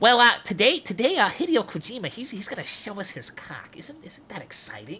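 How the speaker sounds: high, swooping put-on voice. Doing the voices for everyone on a stream, announce Hideo Kojima in a Geoff Keighley voice. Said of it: "Wait until you hear my Jeff Keighley voice".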